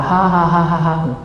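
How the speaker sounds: a slow, drawn-out imitated laugh; slow mock laugh. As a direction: laugh it out slowly, in the man's voice. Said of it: "Dia ketawa".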